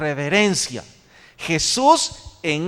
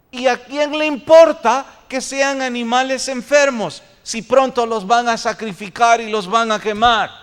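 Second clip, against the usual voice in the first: raised, indignant-sounding rhetorical question; mock who-cares protest; dismissive excuse; 4 semitones higher, 4 dB louder than usual. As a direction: voice someone brushing off an objection. Voicing the sellers' careless excuse.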